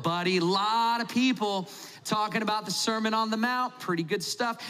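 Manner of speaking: schmoozing Jesus with chummy flattery; smarmy small talk. Retold or imitated. Host Simon buttering up his guest Jesus, mildly chummy put-on. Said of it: "And you're like".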